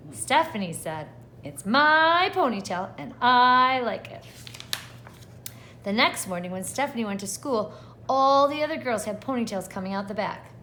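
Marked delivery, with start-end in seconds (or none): 1.4-4.2 defiant retort. Acted. Stephanie defends her ponytail.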